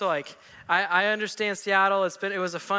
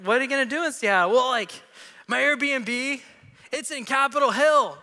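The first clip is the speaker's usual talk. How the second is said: high, eager, fast tourist voice; excited tourist; 5 semitones higher, 4 dB louder than usual. Retold or imitated. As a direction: gush about the trip. Voicing Wayne, excited.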